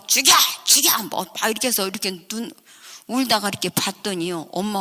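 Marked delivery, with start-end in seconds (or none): 0.1-1.0 louder, higher screaming kill me; yelling. Retold or imitated. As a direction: yell it mid-fight. Mother yelling during fight.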